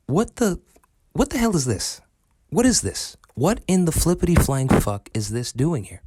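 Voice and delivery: hammed-up what-the-hell startle; mock shocked outburst. The kid in the story, faking waking up shocked at Luke.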